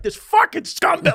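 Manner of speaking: high, drawn-out mock rant; imitated going off. Flight attendant venting from her seat, mock going off. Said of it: "she was going off".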